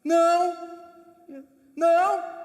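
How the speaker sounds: loud insistent "Não!" three times; repeated loud no. Retold or imitated. Teacher keeps shouting no at the student, insistent. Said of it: "O professor disse".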